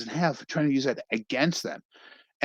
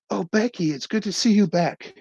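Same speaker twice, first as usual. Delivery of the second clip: teammates greeting Becky; 9 semitones higher than usual. Retold or imitated. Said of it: "they're like".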